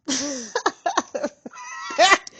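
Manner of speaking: amused burst of laughter; high cackle. Real, not acted. Laughing at the card.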